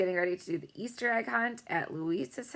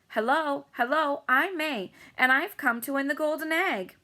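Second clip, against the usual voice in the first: lightly voiced pushy girl, higher; girl's voice; 8 semitones higher, 4 dB louder than usual. A narrator's reading. Pushy girl introducing herself to the family, bright and higher. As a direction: chirp the greeting, pleased with yourself. May greets the family boastfully.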